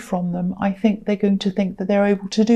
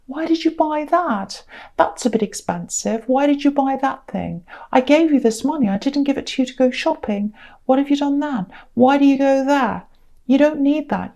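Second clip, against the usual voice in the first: higher, prying and disapproving; nosy nagging relative; 4 semitones higher than usual. Retold or imitated. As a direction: scold like a busybody lender. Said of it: "They'll be saying".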